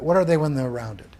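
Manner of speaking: a teacher softening for a confused class; patient repeat. Shown as a demonstration. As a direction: ease off and coax an answer. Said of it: "I know this is somewhat confusing".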